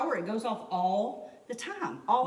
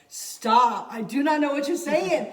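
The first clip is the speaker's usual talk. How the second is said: louder, laughing mock plea to stop; exasperated mock outburst; 5 semitones higher, 9 dB louder than usual. To a Pidgin-speaking friend, laughing exasperated protest. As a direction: throw up your hands in laughing protest.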